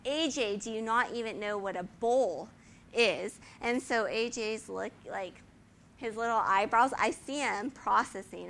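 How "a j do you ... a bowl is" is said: lightly put-on Dutch accent saying "bowl" for ball; how the Dutch coach's "ball" sounded to a seven-year-old, Dutch accent. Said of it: "what he sounded like is".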